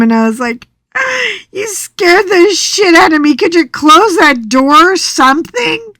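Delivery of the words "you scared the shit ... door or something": high, worked-up protest; rattled scolding. Retold or imitated. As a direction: scold the nurse, still spooked. Scared wife scolds laughing nurse.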